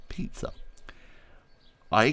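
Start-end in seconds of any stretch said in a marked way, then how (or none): 0.1-0.5 whispered pizza. Real, not acted. Reverent food aside.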